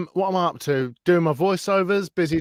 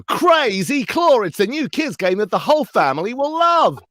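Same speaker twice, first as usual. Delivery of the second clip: advert voiceover voice; 8 semitones higher, 3 dB louder than usual. Shown as a demonstration. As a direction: sell a toy to kids on TV. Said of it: "I do voices on your T V".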